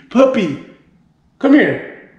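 high, sing-out pet call; calling the dog. Real, not acted. Owner to puppy, high-pitched calling.

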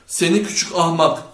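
loud angry insult; shouting. A narrator's reading. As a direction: shout it with contempt. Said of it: "diye bağırdı Chet".

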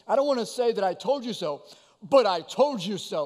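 sarcastic mocking. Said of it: "said in a sarcastic tone, kind of a mocking tone".

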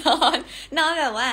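loud laugh through นอน. Real, not acted. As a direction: laugh out the plan to sleep. Laughing about just sleeping. (พูด นอน ไปหัวเราะไป)

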